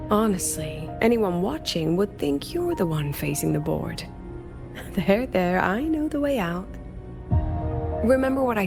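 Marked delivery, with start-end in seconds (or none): 4.1-4.9 brief, very quiet laugh; little breath of a laugh; soft chuckle. Acted. Guide teasing a companion, soft chuckle.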